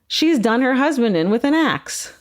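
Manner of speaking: put-on dishing gossip in an Australian accent. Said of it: "I can't do an Australian accent".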